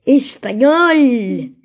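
very slow, drawn-out Spain-style "Español"; mock Spain Spanish. Boy naming his second favourite accent, mock Spain Spanish. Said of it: "Españolet, tío".

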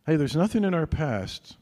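ordinary talk, nothing marked

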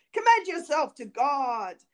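stern command. A narrator's reading. Bluebeard readies to strike his wife, forceful final command. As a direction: pronounce it like an executioner.

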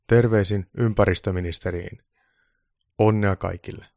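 lightly voiced old man reading out an official notice; slightly performed read-aloud; reading a letter aloud. A narrator's reading. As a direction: read it out emphatically. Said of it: "alkoi lukea ääneen".

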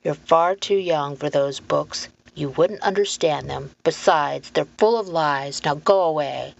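lightly voiced gruff gatekeeper; stern man. Man in bowler hat sending the boy away, stern. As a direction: brush the child off firmly.

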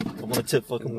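normal speed playback. Shown as a demonstration. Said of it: "rewind it".

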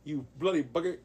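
playful put-on British insult; mock British. Co-host showing how bugger is used, mock British. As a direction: swear like a cartoon Brit.

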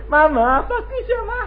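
put-on high, whiny little child pleading to mama; child's voice. Child admiring the neighbor's fruit to mama, high and squeaky. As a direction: play the kid tugging mama's sleeve, squeaky and high.

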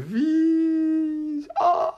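high squeal of delight; excited squeal. Real, not acted. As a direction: squeal it with joy. Thrilled squeal after news.

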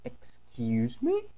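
a mom's warning, drawn out; stern mother. Acted. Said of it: "Sabe aquele tom assim, mais". (mãe brava: "Excuse me?" lento, mais baixo e grave)

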